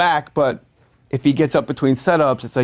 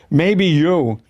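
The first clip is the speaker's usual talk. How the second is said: slow drawn-out; much slower than usual. Retold or imitated. Walken's odd retort.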